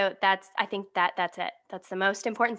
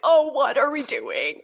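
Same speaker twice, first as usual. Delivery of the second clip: higher retold wail of panic; mock panic; 4 semitones higher, 4 dB louder than usual. Guest recalling nerves in the audition hallway, mock panic. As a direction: act out a melting-down moment, lightly.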